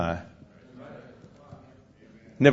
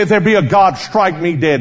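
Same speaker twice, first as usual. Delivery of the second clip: raised, challenging voice of a scoffer; retold defiant yell; 5 semitones higher, 4 dB louder than usual. Atheist daring God before a crowd, mock defiant yell. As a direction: call out the dare as the atheist. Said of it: "He'd yell out and say".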